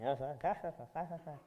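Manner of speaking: muffled imitation of a distant rant; mock wordless yelling, heard as if muted. Daydreamer half-hearing a yelling product owner, muffled babble. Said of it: "it's just all muted".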